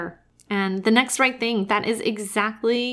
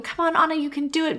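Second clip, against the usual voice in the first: higher, urgent encouragement, as if from the couch; cheering her on; 7 semitones higher, much faster than usual. Retold or imitated. Viewer cheering a cartoon heroine in a cave, high and eager. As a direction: urge her on under your breath. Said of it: "I'm like holding it all together, going".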